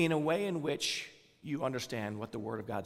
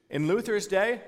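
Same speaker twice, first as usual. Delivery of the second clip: "in Luther's day" lifted much higher and louder, rising at the end; emphatic rise; 8 semitones higher, 5 dB louder than usual. Acted. Pastor stressing the past to his congregation, higher and louder. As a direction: pitch "day" up like an invitation to picture it. Pastor repeats phrase, raised pitch.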